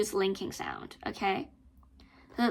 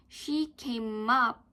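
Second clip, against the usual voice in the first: slow, with weight on up; stressed pronunciation drill; slower than usual. Shown as a demonstration. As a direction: lean on the word up. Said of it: "you stress".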